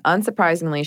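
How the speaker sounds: a hint of Southern twang, unintended; Southern accent. Real, not acted. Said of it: "I just said that so Southern".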